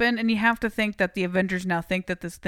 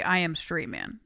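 low, softer mock Russian accent; stereotypical Russian accent; 4 semitones lower, 5 dB quieter than usual. Correcting the co-host's imitation, stereotypical Russian accent. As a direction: do a clichéd Russian accent, dropping little words. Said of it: "No, he said, he would say".

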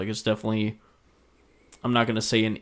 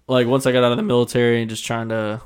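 voice cracking; 7 dB louder than usual. Real, not acted. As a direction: voice breaks mid-sentence. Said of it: "my voice just cracked".

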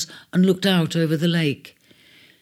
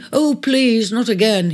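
high, louder weary plea; pleading; 6 semitones higher, 4 dB louder than usual. Acted. Ares begging Cancer not to gush again. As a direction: beg her to stop, worn out. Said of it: "he pleaded".

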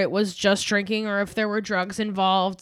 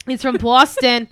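bad Boston accent; 2 semitones higher, 8 dB louder than usual. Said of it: "bad at that accent".

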